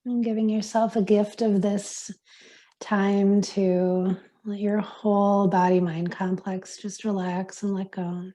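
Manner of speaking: unhurried meditation guide, long pauses; guided meditation. Acted. Yoga teacher easing class into silence, guided meditation voice. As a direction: guide them into stillness, leaving space between phrases.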